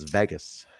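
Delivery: "Vegas" with a short e, like VEGG-us; Bill's Vegas. Retold or imitated. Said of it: "as Bill says".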